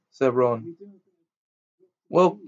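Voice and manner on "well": higher, louder prefect's order; fussy prefect ordering them to bed; stern prefect. A narrator's reading. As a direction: shoo them off with authority. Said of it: "said Percy sternly".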